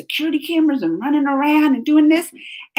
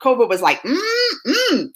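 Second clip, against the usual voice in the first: Dave Chappelle impression. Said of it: "you can hear Dave Chappelle saying".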